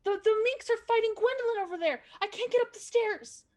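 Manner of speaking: high, fast, frightened protest; scared kid arguing back; panicked child voice. Acted.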